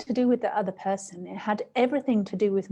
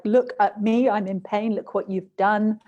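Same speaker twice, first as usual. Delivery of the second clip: louder, dramatized self-pity; mock self-pity; 5 dB louder than usual. Acting out a tantrum at the blamed person, mock self-pity. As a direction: play the wounded one, accusing. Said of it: "I'm dramatizing this a little bit".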